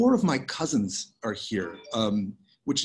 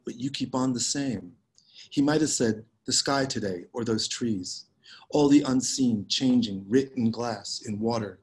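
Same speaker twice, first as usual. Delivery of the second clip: measured, unhurried poetry reading with lingering pauses; poem reading. Acted. Poet reading her work to a Zoom audience, measured poem reading. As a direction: let each image settle before the next.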